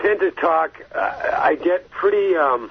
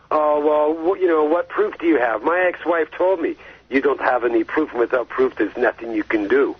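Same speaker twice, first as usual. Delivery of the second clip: put-on a faint, half-hearted French accent on the doubters; bad French accent. Mocking the doubters who ask for proof, bad French accent. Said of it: "That's my bad French accent".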